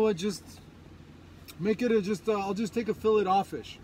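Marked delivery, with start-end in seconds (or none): 2.9-3.8 "fillet offish" said as fill-it off-fish; "fillet offish" with a hard T and "offish". Acted. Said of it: "the filet o fish?".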